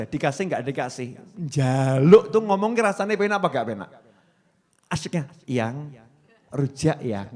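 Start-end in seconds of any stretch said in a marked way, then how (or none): 5.5-7.3 spoiled pleading. Acted. Wife coaxing her husband for rujak, spoiled and pleading. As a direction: wheedle like a pampered wife. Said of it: "manja dalam meminta".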